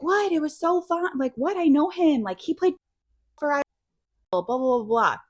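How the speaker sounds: high chirpy innocent protest; mock innocent wife. Wife defending herself to husband.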